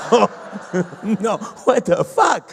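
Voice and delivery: disbelieving shout. Real, not acted. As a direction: blurt it out in laughing outrage. Comic exclaims in disbelief.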